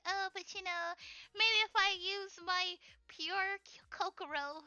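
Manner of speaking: lightly voiced, falsely hopeful girl; mock naive heroine. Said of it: "she's just like".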